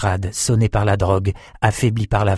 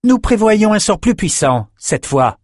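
higher, hissing sorceress; hissed; 11 semitones higher, 4 dB louder than usual. A narrator's reading. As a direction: hiss it coldly. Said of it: "siffla Thora".

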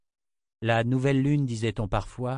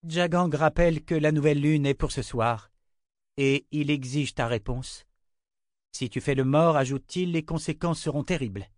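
reading a threat; 5 semitones higher than usual. Acted. Verna reads emperor's threat.

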